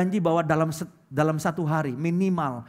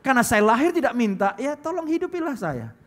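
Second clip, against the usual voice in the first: higher, louder, with a cheeky grin; grinning brat; 8 semitones higher, 4 dB louder than usual. Retold or imitated. Preacher acts a grinning ungrateful child, higher and louder. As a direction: smirk through it like a shameless kid. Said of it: "Sambil cengar-cengir gini".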